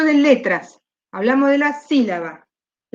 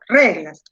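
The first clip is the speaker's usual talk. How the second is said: "reglas" with weight on RE, falling away; "reglas" low, with a strong first syllable; stress on first syllable; 5 semitones lower than usual. Shown as a demonstration. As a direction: lean on RE in "reglas". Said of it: "donde yo más llevo la fuerza".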